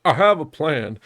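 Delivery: a hint of Dutch announcing his plan; Dutch impression. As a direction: lightly play the scheming gang leader. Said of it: "be like".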